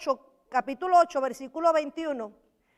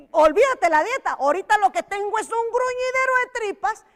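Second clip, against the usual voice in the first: hungry dieter voice; 6 semitones higher, 5 dB louder than usual. Acted.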